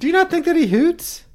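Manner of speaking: very high hammy hoot; Commander Sisko voice. Retold or imitated. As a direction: overact it like a starship captain. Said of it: "That's what he sounds like to you?".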